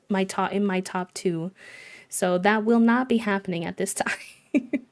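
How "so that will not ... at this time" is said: refusing with a laugh near the end; playful no, breaking into a laugh; a measured no that cracks into laughter; amused refusal. Real, not acted. Lightly refusing villager's wish to leave.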